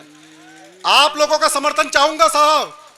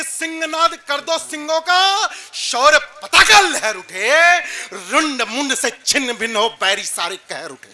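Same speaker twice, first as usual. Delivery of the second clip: poetry recitation; slower than usual. Acted. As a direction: declaim a heroic call to arms. Recites verse on stage. (ओजस्वी वीर रस काव्य पाठ)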